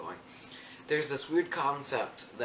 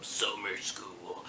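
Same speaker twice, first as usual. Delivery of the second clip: quick breathy whisper; 4 semitones lower, 6 dB quieter, much slower than usual. Real, not acted. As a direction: whisper it like a secret. Whispering in the middle of story.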